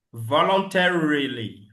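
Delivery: "Voluntarily" slowly, with an English R; slow American voluntarily. Shown as a demonstration. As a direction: stretch "Voluntarily", no French R. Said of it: "Je ne dis pas ro ou bien r". ("Voluntarily" lentement avec le R anglais)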